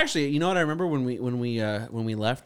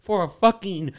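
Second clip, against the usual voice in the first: mock heated rant; 5 semitones higher, 3 dB louder than usual. Host rants to co-host about sound effects, hammed-up anger. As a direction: play it like a soap opera tantrum. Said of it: "I'm fucking heated".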